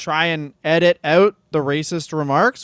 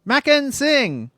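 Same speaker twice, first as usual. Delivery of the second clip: mock ring announcer.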